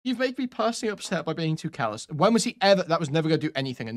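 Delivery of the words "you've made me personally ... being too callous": higher, softer, wounded parody voice; mock hurt loser. Mocking an upset viewer who complains to Destiny, higher and softer. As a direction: whimper it like a sulking fan, higher and softer. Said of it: "some fucking loser being like".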